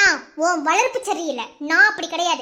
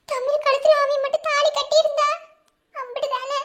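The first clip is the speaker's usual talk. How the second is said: high, tearful self-blame; weeping over her mistake; crying; 4 semitones higher than usual. Acted. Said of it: "அழாம பேசாம இரு".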